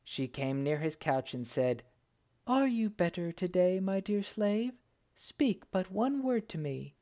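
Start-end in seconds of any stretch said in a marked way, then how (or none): 2.5-7.0 higher, sweet enchantress voice. Acted. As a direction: coo like a scheming witch queen. Enchantress speaks to slave.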